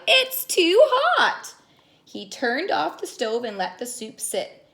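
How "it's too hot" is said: whiny high crocodile voice, drawn out; high, slow complaint. Acted. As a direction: complain it burned you, slowly. Kyle complains about hot soup.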